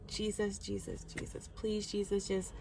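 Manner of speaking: hushed, broken pleading to Jesus; begging quietly for it to stop; desperate pleading prayer. Retold or imitated. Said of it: "I'm pleading with the Lord".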